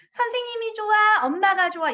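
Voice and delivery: lightly voiced parent coaxing the child; mock parent asking. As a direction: ask sweetly like a parent teasing a child. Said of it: "이거 절대 물어보면 안 되는 질문".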